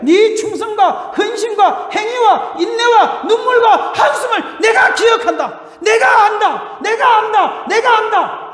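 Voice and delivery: loud, high, slow proclaiming; preaching shout. Acted. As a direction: thunder the Lord's words from the pulpit. Preacher quoting the Lord loudly.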